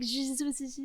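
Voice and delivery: soft buzzed "zzzz" imitating French; light buzz at the front of the mouth; French buzzing sound. Shown as a demonstration. Showing what she likes in French accents, soft buzzing imitation. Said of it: "they have the little".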